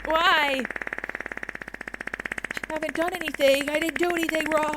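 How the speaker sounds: hammed-up wounded innocence; mock innocent protest. Chat spams her.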